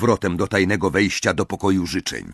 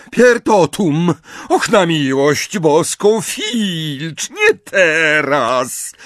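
higher, louder spell cry; exasperated shout; 6 semitones higher, 5 dB louder, much slower than usual. Acted. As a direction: snap at the interruption. Casting spell, interrupted.

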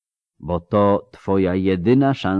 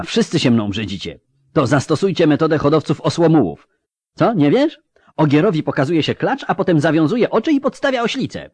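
much higher, louder bitter shout; 10 semitones higher, 6 dB louder than usual. A narrator's reading. Ciri shouting her bitter mockery at the elf, loud. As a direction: hurl the crude mockery at him. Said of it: "krzyknęła".

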